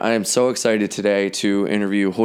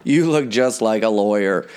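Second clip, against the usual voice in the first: indignant rant; 6 semitones higher, slower than usual. Retold or imitated. Indignant retold inner rant.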